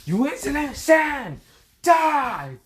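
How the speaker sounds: high, startled then raging villain; Frio's outraged villain voice. Acted. Frio shocked at Boruto breaking through, high villain rage. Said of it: "Frigo's like".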